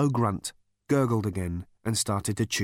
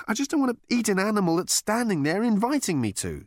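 much higher, pleading voice; squeamish Arthur; 11 semitones higher than usual. A narrator's reading. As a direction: protest queasily. Arthur speaks.

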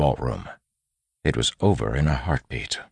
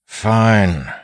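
loud, raised bandit boss call; yelled; 8 semitones higher, 8 dB louder than usual. A narrator's reading. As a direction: yell it across the room. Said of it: "he yelled".

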